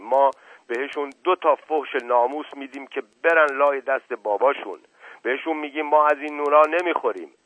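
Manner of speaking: hint of a cornered village servant; flustered old servant. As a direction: fumble for an excuse, nervous and loud. Mash Qasem boasting loyalty.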